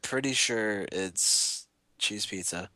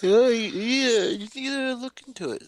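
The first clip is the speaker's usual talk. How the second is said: excited; 12 semitones higher, 4 dB louder than usual. Real, not acted. Excited urging.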